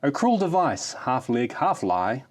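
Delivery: grand, hammed-up ode reading; mock-solemn ode to a kickstand; mock-heroic poem recital. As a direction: declaim it like solemn verse.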